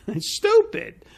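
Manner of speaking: a scoffing laugh, pitched high and drawn out slowly. Real, not acted. Man mocking the proposed reforms, laughing scornfully. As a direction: laugh it off as stupid.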